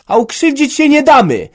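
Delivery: very high, loud defiant scream; shriek. A narrator's reading. Daughter-in-law rises against the old man, shrieking. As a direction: scream it out in protest. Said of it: "wrzasnęła Hanka".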